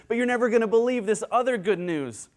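high, eager topping of good news; so excited. Acted. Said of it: "He is so excited".

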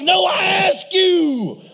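high, loud mock snap; mom's retort. Mom at the drive-thru refusing her son, mock snap. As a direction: mom snapping back at the kid. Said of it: "She's like".

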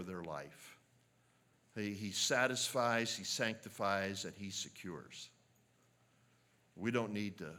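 earnest spoken prayer to the Lord; preacher leads his closing prayer, earnest and fervent; pastoral prayer. Acted. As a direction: pray it over the congregation. Closing prayer after "let's pray.

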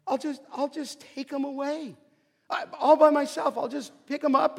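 utter faith. Acted. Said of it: "she says this with utter faith".

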